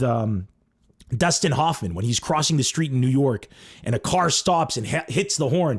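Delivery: normal talking voice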